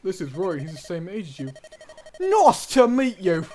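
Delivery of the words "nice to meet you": high, loud and slow, cutesy; little girl voice. Acted. Lilina greets Roy, high and loud little girl. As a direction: squeal it like an excited little girl. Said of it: "That's their voice".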